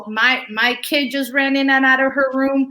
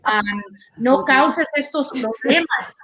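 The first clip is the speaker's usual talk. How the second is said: Hispanic mom advice. Retold or imitated. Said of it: "las mamás hispanas a veces dicen como consejo".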